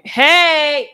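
high, sharp call from off mic; calling out a scolding. Real, not acted. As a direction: break off and call out to stop the misbehaving. Breaks off to scold pets.

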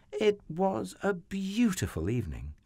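high, lilting storyteller voice; gentle scene setting. A narrator's reading. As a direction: paint a lovely evening, pitched high.

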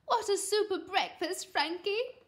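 high, cheery mum; bright. A narrator's reading. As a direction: praise your child brightly. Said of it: "said Mum brightly".

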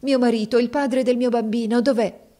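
high, loud desperate demand; desperate cry. Acted. Viola begs the jailer for her husband, high and loud. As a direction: cry out for him.

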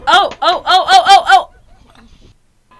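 loud shocked laughing oh's. Real, not acted. Reacting to a gamer smashing his computer, loud shocked oh's. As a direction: gasp out a string of oh's, laughing.

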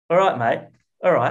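put-on English accent; English accent that could pass for Australian. Shown as a demonstration. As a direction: greet in an attempted English accent. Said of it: "I'm still English".

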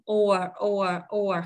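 "or" with a long rounded O and curled R; full, separate "or"; strong form. Shown as a demonstration. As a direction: round the lips and hold "or", tongue curled at the end. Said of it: "âm O có dấu hai chấm làm O dài tròn môi".

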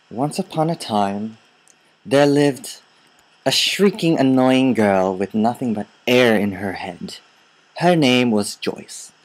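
storyteller opening a fairy tale; mock story narration. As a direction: narrate a teasing bedtime tale. Tells a teasing fairy tale.

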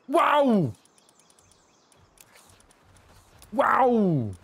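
high, loud drawn wows; amazed wows. Real, not acted. Streamer admiring the garden with teammates, falling wows. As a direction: let each wow fall in wonder.

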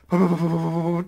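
stuttered imitation of trembling; mock shivering babble; trembling in fear. Imitating the girl shaking beside the jar, trembling. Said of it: "떨고 있어".

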